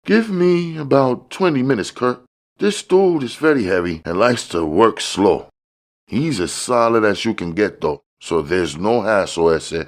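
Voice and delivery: high, smooth hustler voice; high-voiced dealer showing off; George, slick dealer. George speaks in story.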